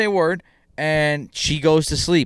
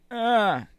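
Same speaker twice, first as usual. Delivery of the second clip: panicked yelp; 10 semitones higher than usual. Retold or imitated. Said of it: "because I was like".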